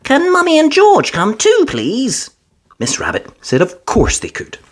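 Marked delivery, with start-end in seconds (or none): 0.0-2.3 put-on high little girl pleading; Peppa asking. A narrator's reading. Peppa asking Miss Rabbit for family to come, sweet. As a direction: ask sweetly.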